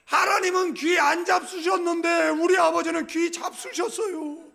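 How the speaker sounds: high, loud cheeky reply; child's shouted retort. Retold or imitated. Child answering grandma with a loud retort. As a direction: shout it back like a smart kid. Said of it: "얘가 이렇게 하기를".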